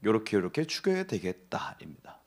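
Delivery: 요렇게 요렇게 죽여야 whispered low and hushed; hushed scheming whisper. Shown as a demonstration. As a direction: whisper the plot like a secret. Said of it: "요렇게 해서".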